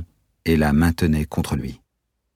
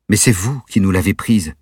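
annoyed; 4 semitones higher, 4 dB louder than usual. Acted. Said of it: "s'agaça la jeune femme".

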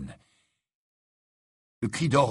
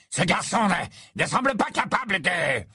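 1 stammering; 8 semitones higher than usual. A narrator's reading. Amycus stammers to Snape.

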